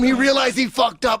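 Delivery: ordinary talk, nothing marked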